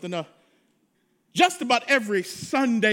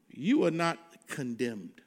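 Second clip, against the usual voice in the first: softly, lower, a hushed gentle reassurance; Spirit's quiet whisper; 8 semitones lower, 7 dB quieter than usual. Retold or imitated. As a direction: breathe it like the Spirit speaking to a weary heart. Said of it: "That's when the Spirit whispers and says".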